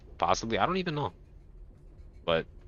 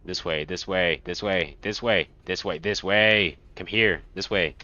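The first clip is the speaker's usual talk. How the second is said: beckoning spirit voice, building louder; luring voice; slower than usual. Acted. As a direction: call them onward, growing insistent. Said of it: "the voice inside your head was getting loud".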